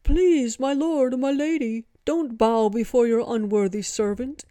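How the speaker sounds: loud, high-pitched monkey devotee; high, booming proclamation from a devoted ape; booming gibbonish voice. A narrator's reading. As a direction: boom it out like a grand ape herald. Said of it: "The monkey interjected".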